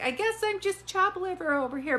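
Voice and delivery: high, teasing sulk; mock hurt. Medium voicing grandmother, jokingly sulking about being overlooked. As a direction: play the grandmother feeling left out, teasingly.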